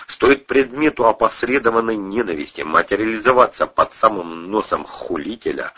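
plain reading voice

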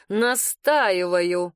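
slow, firm, clipped-off finality; final insistence. Acted. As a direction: set it down like a seal. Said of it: "припечатал он таким тоном".

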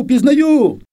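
high, loud repeat, falling at the end; excited cry. Retold or imitated. Girl calls back to the man in the tree, high loud joyful cry. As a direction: cry it out again, high and loud, and let it fall. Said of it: "Я закричала".

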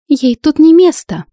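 angry snarl; snapping. Acted. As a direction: snap it at the intruder. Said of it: "огрызнулась бывшая подруга".

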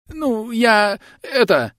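high, frantic country bumpkin voice; high panicky peasant. Acted. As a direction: gabble like a scared yokel. Bandit caught, stammering. (высокий испуганный голос мужика)

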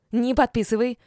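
high, loud squeal of panic; shrieking. A narrator's reading. Mother shrieking at her son over the wife's head, squealing. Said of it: "взвизгнула Элеонора Рудольфовна".

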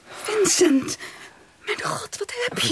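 anxious call to a collapsing man; scared gasps, voice rising; frightened. Acted. Vincent collapses before her. (bang en geschrokken)

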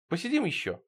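gently begging; pleading. A narrator's reading. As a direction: ask softly for a little longer. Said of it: "попросил я".

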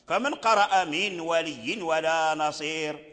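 من ولي ولا نصير read slowly with the nun blended; wrong recitation. Shown as a demonstration. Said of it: "هذا أقبح". (تلاوة خاطئة بطيئة لمن ولي ولا نصير)

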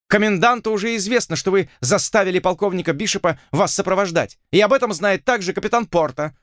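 pompous lord sure he has won; gloating lord. A narrator's reading.

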